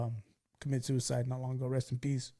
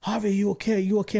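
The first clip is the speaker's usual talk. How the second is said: raised, worried calls of his name; retold scream; 6 semitones higher, 5 dB louder than usual. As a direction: call out to a hurt friend, louder and higher. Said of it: "screaming at me".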